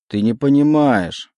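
justifying. Acted. Legion justifies himself to Oleg, slow and loud. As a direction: insist on your excuse. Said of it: "решил оправдаться Легион".

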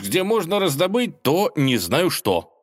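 Ivan's voice. A narrator's reading. Ivan peeking out at the dragon, high and timid. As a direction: play the nervous young lad. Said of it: "Ivan stammers".

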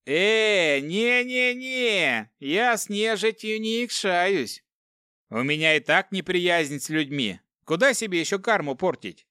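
high, hasty no-no-no; alarmed refusal. A narrator's reading. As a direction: back away in a panic. (испуганно отказывается)

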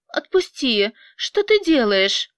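startled cry to let go, rising on ты; surprised. Acted. Angelina startled as Vyacheslav grabs her arm. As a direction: caught off guard, pulling free. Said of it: "удивилась она".

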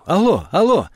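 anxious phone hello; urgent calling into phone. A narrator's reading. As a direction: call down the dead line, urgently. Patrick finds phone dead.

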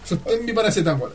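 voz que sube. Retold or imitated. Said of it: "La voz sube de".

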